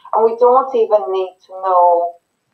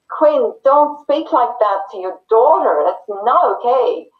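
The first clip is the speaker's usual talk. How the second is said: scolding outsider; 5 semitones higher than usual. Pretend. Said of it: "somebody's to come onto the scene and just say".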